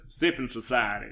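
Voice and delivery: "Sipping Society" said quickly and clearly, as it is supposed to be said; correct pronunciation. Shown as a demonstration. Host correcting herself on the show's name, quick clear "Sipping Society". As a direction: rattle off "Sipping Society" the proper way. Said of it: "is how it's supposed to be said".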